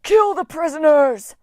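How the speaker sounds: high, loud otherworldly command; cried out. A narrator's reading. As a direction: roar the order across the room. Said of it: "Wolfhead cried".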